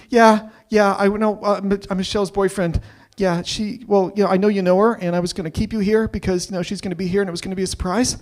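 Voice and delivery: a cornered guy talking his way out; nervous guy's excuse. Retold or imitated. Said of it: "Looks at my cousin and says".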